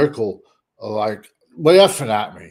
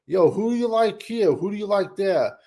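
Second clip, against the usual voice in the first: mock question; 6 semitones higher than usual. Mocking calls to podcasters.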